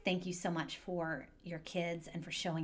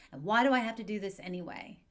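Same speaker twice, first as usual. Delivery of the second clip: whiny protest; 3 semitones higher, 6 dB louder than usual. Acted. Kid complaining to parent.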